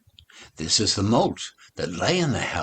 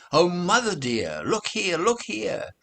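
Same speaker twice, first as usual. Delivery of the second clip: high eager kitten voice; 10 semitones higher than usual. Acted. Kittens show washed mittens.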